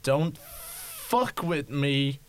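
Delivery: slow, cold warning; slow menacing threat. Acted. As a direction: threaten each word slowly. Guard threatens.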